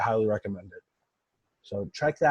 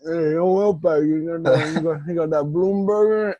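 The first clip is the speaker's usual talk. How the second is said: raised, louder hype voice ordering; higher, louder playful order call; 5 semitones higher, 4 dB louder than usual. Retold or imitated. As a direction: call it out like a hyped-up customer. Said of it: "do a little call ski".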